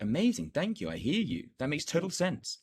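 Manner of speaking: light, agreeable reassurance; agreeing. Shown as a demonstration. Coach demos agreeing with a hesitant client. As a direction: soothe the objection away. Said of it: "Agreeing with them".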